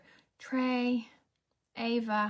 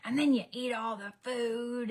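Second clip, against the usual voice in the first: mock psycho rant; slower than usual. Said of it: "I did turn a little bit into a psycho".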